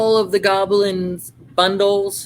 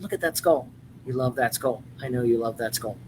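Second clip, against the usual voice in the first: cooing at the skull; 7 semitones lower, 9 dB quieter, faster than usual. Acted. Cooing over a goblin figure.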